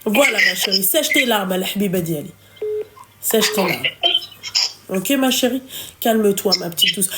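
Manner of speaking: gently calm down someone in tears; low, hushed comfort; tender consoling. Real, not acted. Consoling a tearful caller.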